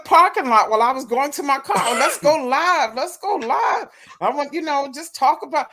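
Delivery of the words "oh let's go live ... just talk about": imitating eager pestering. He chases her to car.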